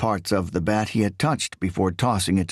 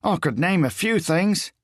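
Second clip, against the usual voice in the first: higher, leering and suggestive; lustful; 9 semitones higher than usual. A narrator's reading. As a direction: savour each word like a threat. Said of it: "Patrick said lustfully".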